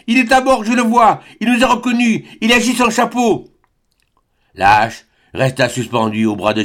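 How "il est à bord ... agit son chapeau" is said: put-on high eager voice of a boy; excited child. A narrator's reading. Robert telling the others he is seen, high eager voice. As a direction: point it out breathlessly. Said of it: "disait l'enfant".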